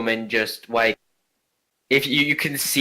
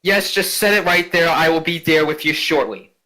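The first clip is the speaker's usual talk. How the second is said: haughty noble lady; 5 semitones higher than usual. Acted. Noble ghost orders servant.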